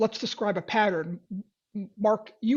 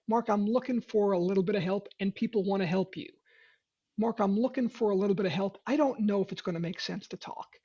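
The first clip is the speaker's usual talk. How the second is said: disarmingly honest; 4 dB quieter than usual. Shown as a demonstration. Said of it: "disarmingly honest".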